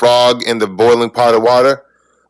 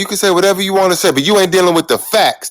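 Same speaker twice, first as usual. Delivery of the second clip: raised, fast and higher; heated yelling; 5 semitones higher than usual. Real, not acted. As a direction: shout the point over him. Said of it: "You yelling".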